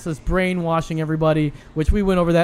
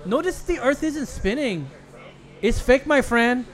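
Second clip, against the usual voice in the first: high, slow Chola voice; Chola accent; 7 semitones higher than usual. Pretend. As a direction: sass it like a chola. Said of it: "with a Mexican, probably Chola".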